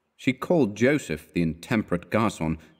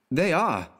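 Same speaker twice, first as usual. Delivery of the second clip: raised-pitch, warm exclamation; warm cry; 7 semitones higher than usual. A narrator's reading. Customer agreeing with the gardener, warm cry. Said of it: "cried Selby warmly".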